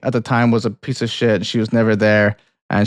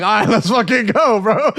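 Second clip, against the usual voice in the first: higher, excited dog voice; an eager dog ready for an adventure; voicing the dog; 9 semitones higher than usual. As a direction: play the dog, all pumped up. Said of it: "He's just like".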